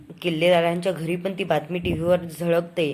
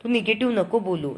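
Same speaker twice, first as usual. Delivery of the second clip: higher and louder mock scolding; a touch of a mother's annoyed rebuke; mother scolding the negative daughter-in-law, raised; retold anger; 4 semitones higher, 3 dB louder than usual. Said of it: "कल्पना पण तिच्यावर चिडते".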